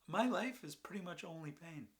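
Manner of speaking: loud, high-pitched confession; anguished outpouring. Acted. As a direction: pour it out loudly, pitch swooping up. Anguished confession after laughing outburst.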